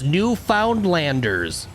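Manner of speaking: "Newfoundlanders" slowly sounded out as written, every syllable; spelled-out pronunciation. Shown as a demonstration. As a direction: drag "Newfoundlanders" out letter by letter. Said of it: "literally what is written".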